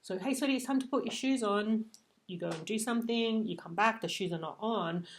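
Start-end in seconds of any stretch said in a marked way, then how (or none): 0.2-1.9 grounded and sweet. Shown as a demonstration. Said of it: "that tone of voice was pretty grounded".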